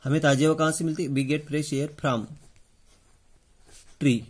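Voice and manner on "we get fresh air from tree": very slow, word by word; dictation pace. Shown as a demonstration. Teacher dictates the answer to pupils, very slowly. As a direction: spell out the answer slowly for writing. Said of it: "इसका answer क्या आएगा".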